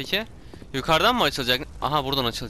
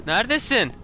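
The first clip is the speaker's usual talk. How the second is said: raised questioning call; 5 semitones higher than usual. Real, not acted. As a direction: call to someone hidden. Calling out to unseen crier.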